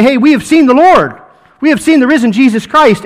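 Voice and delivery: mild excited report from friends; excited news. Retold or imitated. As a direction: burst in with the good news. Disciples excitedly telling Thomas.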